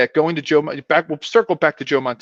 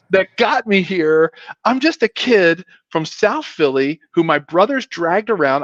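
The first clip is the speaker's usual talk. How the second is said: amazed disbelief; 4 semitones higher than usual. Retold or imitated. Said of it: "I was like".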